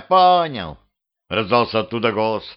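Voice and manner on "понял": "понял" thrown out higher and louder; "понял" snapped back, fed up; exasperated repeat. Acted. Ghost in the wardrobe giving in to Petrovich, exasperated.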